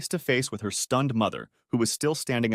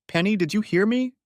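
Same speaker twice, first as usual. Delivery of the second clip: raised, questioning mom's call; calling mother; 10 semitones higher, 3 dB louder than usual. Acted. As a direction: call out to a daughter behind a door.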